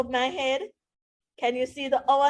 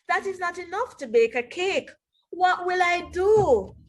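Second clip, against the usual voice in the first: worried Tom; 6 semitones higher than usual. Acted. Tom worrying aloud.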